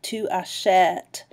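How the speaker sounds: Tu achètes slow, with a clear open eh in achètes; French è sound. Shown as a demonstration. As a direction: draw out the eh of Tu achètes for the class. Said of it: "making the eh sound".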